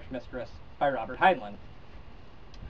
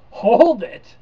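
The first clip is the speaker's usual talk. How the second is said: loud, higher shout to cut him off; sharp shout; 6 semitones higher, 12 dB louder than usual. Acted. Narrator shouts at the computer Mike to stop reading, loud and higher. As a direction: bark it out to stop him mid-sentence.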